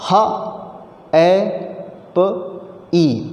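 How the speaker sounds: ह, ए, प, ई as four separate sounds with pauses between. Shown as a demonstration. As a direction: isolate each phoneme: ह... ए... प... ई. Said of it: "एक एक sound count करेंगे".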